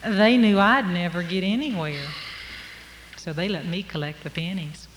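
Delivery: drawled, unhurried tale-telling; folksy story narration. Acted. Storyteller to audience about being overlooked, folksy narration. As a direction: spin it like a country yarn.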